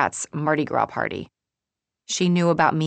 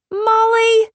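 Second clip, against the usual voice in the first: high, loud reproachful name; scolding call; 10 dB louder than usual. Acted. May reacting to bacon joke, scolding. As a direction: call the name sharply, pitched right up.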